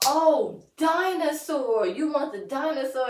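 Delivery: high, loud dawning recognition; excited realization. Acted. Parent finally understanding the toddler, loud excited realization. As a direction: exclaim it as it finally clicks. Acted sudden understanding of the child.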